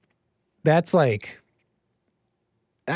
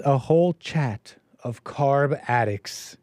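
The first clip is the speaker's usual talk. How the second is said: slow reading of a viewer's super chat; slow quoted super chat; reading out a comment; slower than usual. Shown as a demonstration. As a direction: read the comment aloud, drawn out slowly.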